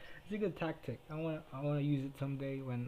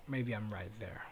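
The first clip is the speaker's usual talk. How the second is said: whispered aside; 4 semitones lower than usual. Real, not acted. Admitting he is lonely too, in a whisper. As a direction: breathe it like a private confession.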